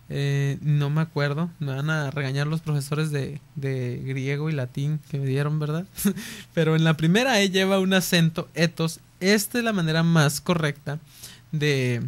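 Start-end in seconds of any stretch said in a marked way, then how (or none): 5.9-6.5 risita suave y aguda; ríete bajito de tu propio olvido. Real, not acted. Bromea sobre olvidar lo aprendido. (risita apenada)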